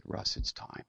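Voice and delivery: hushed, voiceless whisper; soft whispered prompting; retold whisper. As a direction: imitate a quiet inner voice, whispered. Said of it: "heard the Spirit of God whisper".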